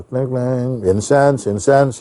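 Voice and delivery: a vendor's sing-song cry of wares; street hawker call. Retold or imitated. Calling out selling on street.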